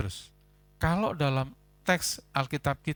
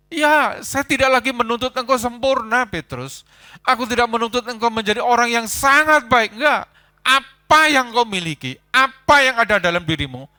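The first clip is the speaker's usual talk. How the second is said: higher, louder, impassioned voice of the Lord; fervent reassurance; 9 semitones higher, 11 dB louder than usual. Acted. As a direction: declare acceptance with full force. Lord accepting Peter as he is. (suara Tuhan yang lantang dan penuh kasih)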